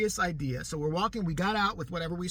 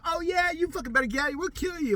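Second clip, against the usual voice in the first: mock threat; 9 semitones higher than usual. Teller's fake threat.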